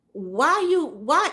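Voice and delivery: high, mocking put-on voice; mocking the mother-in-law. Teller mimicking the mother-in-law's kitchen question, high mock voice. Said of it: "so she goes".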